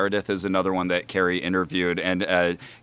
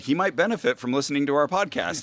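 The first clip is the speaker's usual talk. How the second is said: dry retort; 6 semitones higher than usual. Retold or imitated. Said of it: "I wrote back and said".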